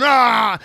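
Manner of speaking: loud, high mock scream of a panicked trader; imitated scream. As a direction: belt out a short yell like he's being shoved around. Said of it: "screaming and yelling".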